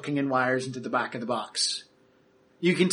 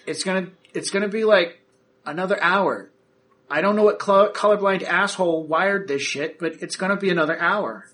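grumbling technician; 4 semitones higher, 3 dB louder than usual. Acted. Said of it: "he's just like".

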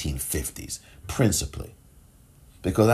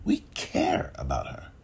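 whisper; 5 semitones lower, 6 dB quieter than usual. Real, not acted. Whispered echo after the name.

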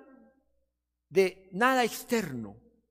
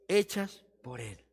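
slow awed reading; 7 semitones lower than usual. Shown as a demonstration. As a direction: lower and slow, hechas por él drawn out in awe. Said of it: "Vamos a leerlo lentamente".

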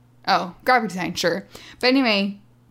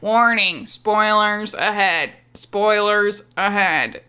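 slow, loud robot warning; 4 dB louder, much slower than usual. Shown as a demonstration. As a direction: stiff robotic announcement, drawn out. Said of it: "you're speaking like a robot".

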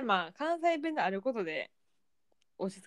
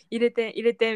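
laughing plea; 6 dB louder than usual. Retold or imitated. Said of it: "みたいな".

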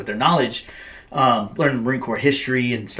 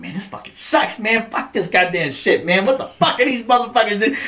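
higher, whining complaint about boot camp; mock whiny recruit; 9 semitones higher than usual. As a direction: gripe like a fed-up recruit. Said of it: "I was like".

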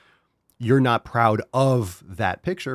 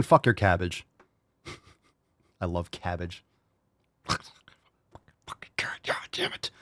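whispered curse; 2 semitones lower, 4 dB quieter, slower than usual. Real, not acted.

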